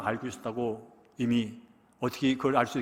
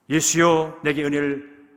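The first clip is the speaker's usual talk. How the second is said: pleading cry; 2 semitones higher, 7 dB louder, slower than usual. Retold or imitated. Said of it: "소리를 질 것인지".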